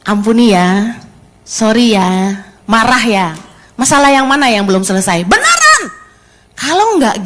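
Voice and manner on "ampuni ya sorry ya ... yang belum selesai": gentle apology. Retold or imitated. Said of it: "Kasih tahu".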